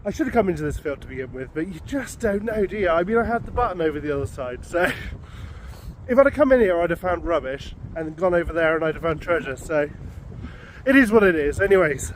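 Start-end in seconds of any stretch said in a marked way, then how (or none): 6.1-12.1 slightly winded, catching breath. Real, not acted. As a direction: talk while short of breath. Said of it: "I'm a little bit out of breath".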